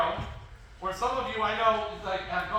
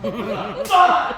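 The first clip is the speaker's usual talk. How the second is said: loud, high "Done!" breaking into laughter; laughing shout; 11 semitones higher, 14 dB louder than usual. Retold or imitated. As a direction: shout it while cracking up. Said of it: "arrow buries in wall".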